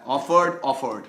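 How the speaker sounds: ऑफर्ड ending in a soft rd sound; demo pronunciation. Shown as a demonstration. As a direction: say ऑफर्ड twice, letting it drop. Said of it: "direct ईडी लगता है". (ऑफर्ड का उच्चारण, आख़िर में हल्का र्ड)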